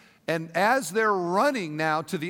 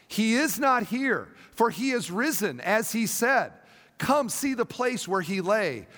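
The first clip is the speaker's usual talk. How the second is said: raised, earnest reading of the angel's words; scripture reading; 3 semitones higher than usual. Acted. Pastor reads the angel's words to the church, proclaiming. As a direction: proclaim the angel's message to the congregation.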